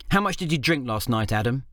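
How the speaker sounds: a hint of a disapproving wife; scolding wife. The speaker scolding hungover husband.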